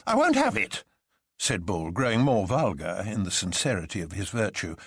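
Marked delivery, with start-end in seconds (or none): 0.1-0.8 refusing. A narrator's reading. Bull refuses firmly.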